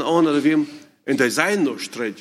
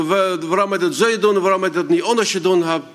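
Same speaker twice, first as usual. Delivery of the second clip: retold yell; 3 semitones higher than usual. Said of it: "brellt mir an".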